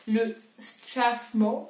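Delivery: slow, careful French-accented English name; clumsy English accent. Real, not acted. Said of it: "on apprécie vachement mon accent".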